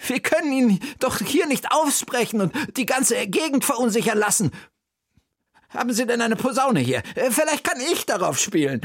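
hohe Frauenstimme, eindringlich; will die Musiker überzeugen; Bertha, drängend. Acted. (Bertha drängt die Musiker mit hoher Stimme)

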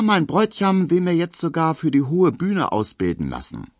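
leicht höher, etwas gespreizt; Emma, ein wenig vornehm tuend, höher; junges Dienstmädchen. Acted. Emma spricht. (leicht gezierte, höhere Mädchenstimme)

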